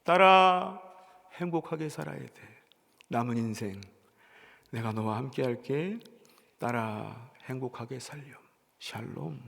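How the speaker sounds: gentle, fading parting blessing; fatherly farewell. Acted. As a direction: say goodbye like a father at his daughter's wedding. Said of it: "친정 아버지가 ... 마지막 인사를 하는 것처럼".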